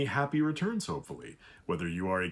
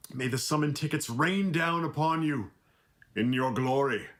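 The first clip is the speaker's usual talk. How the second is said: higher-pitched, ringing proclamation; mock-grand blessing; 4 semitones higher than usual. Voice actor wishing players lucky summons, mock-grand.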